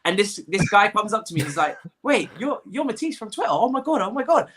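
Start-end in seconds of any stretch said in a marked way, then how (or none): 2.0-4.4 high, breathless fan gushing; mock starstruck squeal, pitched up. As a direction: gush like a fan who just spotted a star. Fan recognizes him, retold.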